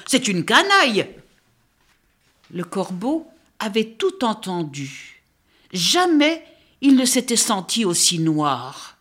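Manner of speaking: put-on lively read-aloud for children, voices the birds; story narration. A narrator's reading. Critic reading the book to young listeners, animated storytelling. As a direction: tell the tale with animated expression.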